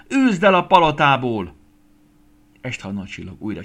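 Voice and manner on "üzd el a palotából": loud, high demand; crowd shouting. A narrator's reading. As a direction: yell for her to be thrown out. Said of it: "kiabált a többi csillag". (követelőző, hangos kiabálás)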